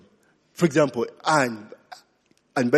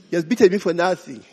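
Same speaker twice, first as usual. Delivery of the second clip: put-on fast, aggrieved child's complaint; a hint of a sulking child; mock whining child; faster than usual. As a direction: rattle it off like a wronged kid. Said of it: "you know those things".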